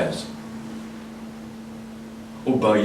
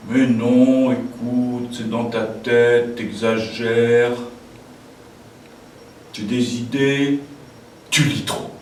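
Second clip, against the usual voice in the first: amis incrédules; slower than usual. Acted. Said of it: "ils me diraient".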